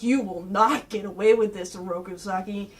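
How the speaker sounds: low warning, softening on the name; lightly voiced solemn master; stern Splinter. Splinter warning Shredder from behind, low stern voice. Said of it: "Splinter comes up behind Shredder and goes like".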